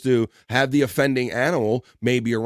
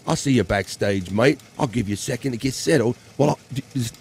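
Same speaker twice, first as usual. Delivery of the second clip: lightly put-on Aussie accent; casual mock-Australian sign-off. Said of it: "my Australian accent anymore".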